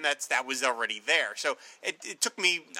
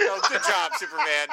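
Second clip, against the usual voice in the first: mock praise; 10 semitones higher, 3 dB louder than usual. Luthor mocking Superman's answer.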